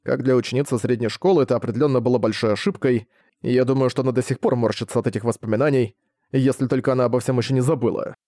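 plain reading voice

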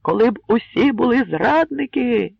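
loud, high angry cry; shouting. A narrator's reading. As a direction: shout it back at the crowd. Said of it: "закричав Джеджелій". (гнівний вигук до юрби)

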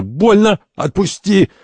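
high-pitched yelps to let go; pained cry. Acted. Santori pinned, arm twisted, crying out in pain. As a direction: yelp as your arm is wrenched.

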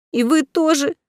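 put-on a girl about to burst into tears; wounded, near-crying question; tearful. A narrator's reading. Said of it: "Из глаз Ани прыснули слёзы".

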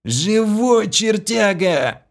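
high, loud, slow joyful yell. A narrator's reading. Vlas yells joyfully while crushing his friend in a hug. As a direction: whoop it out in a bear hug. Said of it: "и завопил".

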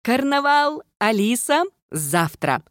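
high, bright chirpy burst; chirping excitedly. A narrator's reading. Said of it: "она прощебетала".

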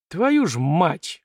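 slow, drawn-out curse of dismay; exhaled curse. Acted. Kolychev watching the prince drink, dismayed exhaled curse. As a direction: breathe it out slowly as dread comes true. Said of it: "выдохнул всё время опасавшийся чего-то подобного".

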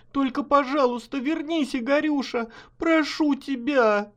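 high, begging voice, rising to near breaking; desperate pleading. Acted. Wife begs husband at the edge, high desperate plea. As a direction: plead with him not to jump.

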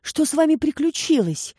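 breathless blurt. A narrator's reading. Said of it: "задыхаясь, выпалила Баси".

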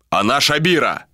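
usual speaking voice

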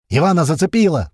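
loud, high-pitched alarm; yell. A narrator's reading. Sliva reports Ivan hit, yelling. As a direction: cry out that a man is down. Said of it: "заорал Слива".

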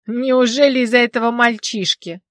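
delighted, loud gossipy question; gleeful snorting question. Acted. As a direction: relish the scandal. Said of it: "восторженно хрюкнул".

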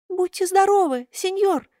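high voice with a touch of sobbing; mild sob. A narrator's reading. Buratino sobs politely to Karabas, mild sob. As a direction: say it through a small sob. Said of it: "всхлипнул Буратино".

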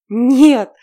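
loud, high shout of refusal. Acted. Heroine refusing her captor, loud shout. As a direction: scream the no at him. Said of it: "крикнула я".

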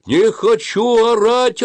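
very high, loud, drawn-out holler; bawling protest. A narrator's reading. Suren refuses to shout by shouting, bawling. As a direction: bawl the refusal at full pitch. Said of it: "орал Сурен".

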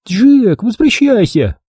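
put-on high, urgent girl's call. A narrator's reading. Mia calls Jack to come back, high calling voice. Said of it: "позвала Мия".

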